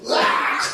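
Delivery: whispered mock shriek of a demon; mock demon scream. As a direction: act out the demon's cry without voice. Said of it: "귀신이 따라갈 때 소리 지르잖아요". (귀신이 나가며 지르는 가짜 비명)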